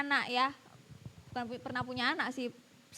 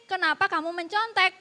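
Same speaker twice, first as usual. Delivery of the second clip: louder, higher repeated demand; pressed, insistent tone; 4 semitones higher, 6 dB louder than usual. Retold or imitated. Teacher interrupts pupil's excuses, retold insistent pressing. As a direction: cut in with a pressed "kenapa kamu mencontek". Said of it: "pertanyaan saya tetap sama".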